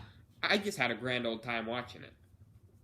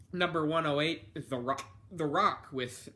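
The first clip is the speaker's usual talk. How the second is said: talking through hiccups; hiccuping between words. Real, not acted. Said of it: "I'm having the hiccups".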